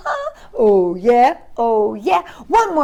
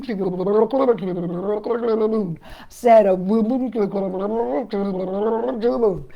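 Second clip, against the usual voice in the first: underwater style; 4 dB louder than usual. Acted. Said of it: "Underwater, here we go".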